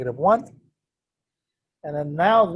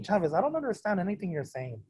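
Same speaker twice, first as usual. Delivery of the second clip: quiet, mumbled student voice; mock the lost class; imitating confused students; 2 semitones higher, 8 dB quieter, faster than usual. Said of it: "that's supposed to be you guys".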